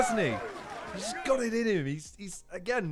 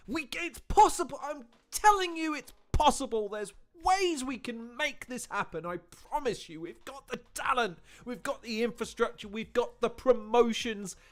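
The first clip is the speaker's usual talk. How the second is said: pleading insistence in bursts; impassioned plea; 3 semitones higher than usual. Acted. Reactor promising it can happen, impassioned plea. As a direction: make an urgent pitch, stretching the key phrases. Impassioned pitch to bring it back.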